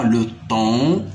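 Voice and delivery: "temps" ending on the nasal vowel, no p or s; silent P and S. Shown as a demonstration. Teacher showing silent letters, "temps" without p or s. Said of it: "il ne se prononce pas".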